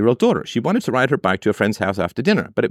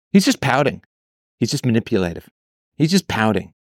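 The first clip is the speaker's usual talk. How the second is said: mock contempt. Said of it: "contempt that people have".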